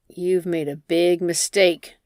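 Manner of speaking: menacing slow. Acted. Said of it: "looks at her angrily".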